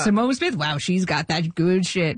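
lightly put-on comedian voice; Adam Sandler impression. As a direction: imitate the comedian quizzing her admiringly. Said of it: "It's the real Adam Sandler voice?".

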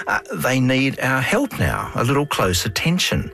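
reflective documentary narration; unhurried documentary voice; nature documentary. Acted. Host's reflective closing narration.

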